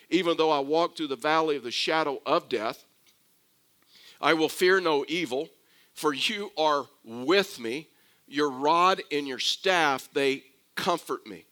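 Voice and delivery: measured, solemn verse reading with pauses; scripture reading. Acted. Preacher reading Psalm twenty-three to the congregation, scripture reading. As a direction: recite the verse deliberately, phrase by phrase.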